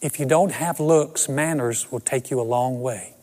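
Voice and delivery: lightly voiced Southern belle mother, Georgia accent; a mother's gentle advice in a Georgia accent. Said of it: "great Southern Georgia accent".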